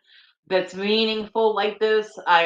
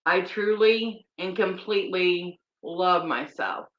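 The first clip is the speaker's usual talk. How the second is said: guided affirmation. Acted. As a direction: lead each line gently, pausing between. Tapping affirmations, slow guided voice.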